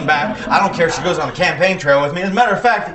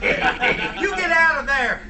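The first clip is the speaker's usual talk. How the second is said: commanding shout; 9 semitones higher, slower than usual. Acted. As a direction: order the demon out. Exorcist commands the demon.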